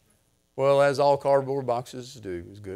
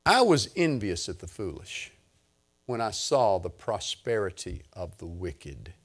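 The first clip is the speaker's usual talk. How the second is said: scripture reading; 7 semitones lower than usual. Real, not acted. Reads scripture aloud.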